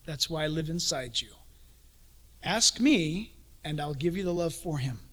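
soft whispered reassurance; gentle whispered voice of God; Lord's whisper. Acted. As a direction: whisper it close and tender. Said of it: "the Lord says".

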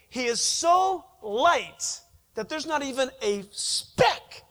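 fervent slowed proclamation; preaching shout. Acted. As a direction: drive it home from the pulpit. Preacher stressing God's purity.

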